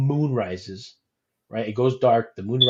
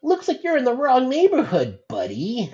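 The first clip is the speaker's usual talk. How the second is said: high mock thug threat; tough guy voice; 12 semitones higher than usual. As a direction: play the menacing gang thug. Voicing menacing raptor thug.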